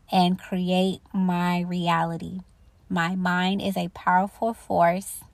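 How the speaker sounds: slow, deliberate affirmation. Shown as a demonstration. Reciting an affirmation to viewers, slow and calm. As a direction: recite it slowly like a mantra. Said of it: "the affirmation for the principle of mentalism".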